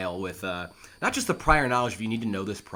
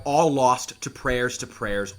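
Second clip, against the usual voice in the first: louder despairing cry; 5 dB louder, slower than usual. Acted. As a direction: wail it like the ship is going down. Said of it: "they cry out".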